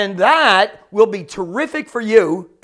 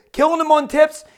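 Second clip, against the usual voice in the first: higher-pitched, surprised echo question; incredulous echo; 6 semitones higher than usual. Acted. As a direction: repeat it back as if puzzled. Cabbie echoes the question in disbelief.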